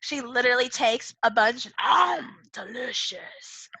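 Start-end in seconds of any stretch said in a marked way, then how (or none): 1.8-3.7 mock yum. Acting the poet eating sprouts.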